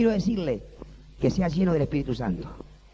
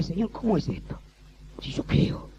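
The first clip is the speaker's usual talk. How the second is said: quiet protest; 3 semitones higher, 5 dB quieter, slower than usual. Retold or imitated. Retold dialogue with God.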